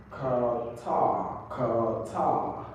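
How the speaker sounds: "Qatar" slowly split into two syllables, second drawn out; pronunciation demo. Shown as a demonstration. Teacher models the word for a student, pronunciation demo. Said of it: "Let's listen to the pronunciation".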